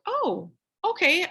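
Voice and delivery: slow, high drawn-out oh okay; a mildly stunned, drawn-out oh okay; taken aback. Retold or imitated. Retelling her reaction to the complaint, drawn out and taken aback.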